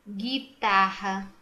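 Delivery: "Guitarra" slow, starting with hard gi; "Guitarra" by syllables, no gw glide; careful sounding-out. Shown as a demonstration. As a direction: stretch "Guitarra" with silent U. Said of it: "Não pronuncia".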